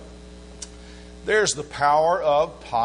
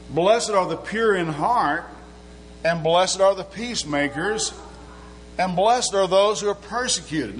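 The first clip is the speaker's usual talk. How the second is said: 1 scripture reading; 3 semitones higher than usual. Acted. Reads scripture in sermon.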